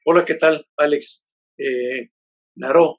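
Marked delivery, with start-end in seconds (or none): 2.6-3.0 "Naro" stressed on the last syllable, na-RO; stress on final O. Shown as a demonstration. Guest correcting host on his surname, "Naro" with stressed final O. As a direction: put the accent on the O of "Naro". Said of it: "con acento en la O".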